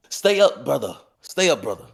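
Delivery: high-pitched, drawn-back yell down the hallway; yelled send-off. Acted. Brother J B calls after a man leaving, high mock yell. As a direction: call it out high, without full volume. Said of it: "Brother J B yells out".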